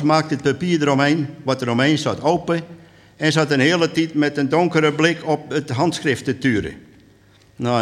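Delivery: lively storyteller's reading; measured dialect storytelling; story narration. A narrator's reading. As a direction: tell it to an audience as a tale. Reads story with light dialogue.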